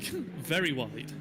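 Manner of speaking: slow mock drawl of very wide; drawn-out very wide; imitating co-host. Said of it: "you're like".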